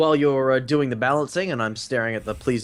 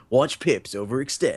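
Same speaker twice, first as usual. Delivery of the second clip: movie trailer announcer voice. Speaker suggesting a trailer for the match, doing the trailer voice guy. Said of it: "the trailer voice guy say".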